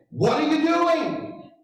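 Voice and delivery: lightly imitated Scottish driver, high and slow; a hint of an upset Scot, pitched high; the other driver confronts him, mock Scottish and high; Scottish accent. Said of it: "barely with the accent".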